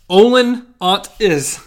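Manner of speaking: loud, slow creature bark; bumbler voice. Retold or imitated. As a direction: lightly imitate the bumbler. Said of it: "he's getting better over here".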